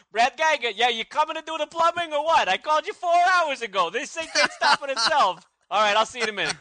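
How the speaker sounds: put-on New York accent. Brad chasing a late plumber by phone, New York accent. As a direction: complain down the phone like a New Yorker. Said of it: "from New York all of a sudden".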